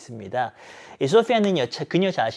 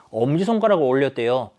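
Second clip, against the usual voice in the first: ordinary talk, nothing marked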